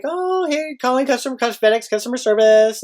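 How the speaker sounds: bright professional call opener; cheery assistant. Retold or imitated. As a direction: assistant calling FedEx, lightly voiced. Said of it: "sitting there like".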